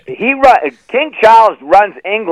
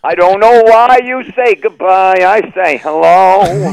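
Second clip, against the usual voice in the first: slow punchline; 5 semitones higher, slower than usual. Acted. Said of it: "punchline repeated slowly".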